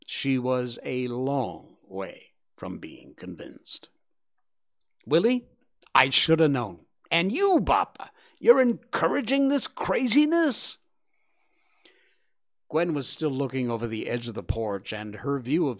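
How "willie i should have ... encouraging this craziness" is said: exasperated scolding. Acted. Gwen scolds both.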